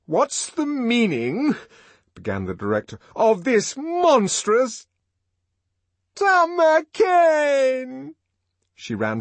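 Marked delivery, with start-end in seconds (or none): 0.1-1.6 high, loud, slow outrage; outraged demand. Acted. Director demands an explanation. 3.2-4.9 high, loud, slow indignation; outraged. Acted. Director outraged, interrupted. 6.1-8.1 very high, loud, long-drawn wail; desperate cry. Acted. Linda cries out to lover.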